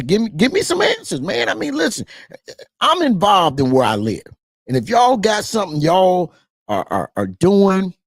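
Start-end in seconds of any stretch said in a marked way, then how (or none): 4.7-7.9 slipping into a Southern twang on y'all; a touch of Southern twang. Real, not acted. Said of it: "my Southern twang came out".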